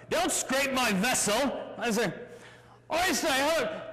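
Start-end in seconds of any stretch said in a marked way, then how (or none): 0.1-1.4 lightly voiced British skipper; a hint of British ship's captain. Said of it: "Captain's British". 2.9-3.8 higher-pitched British greeting; lightly mocked British politeness; British accent. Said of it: "I detect a British accent".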